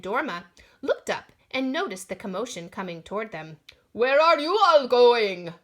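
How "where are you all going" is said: loud call across the shore; man on the shore calling to the crowd. Acted. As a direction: call out to the runners. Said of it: "he called out".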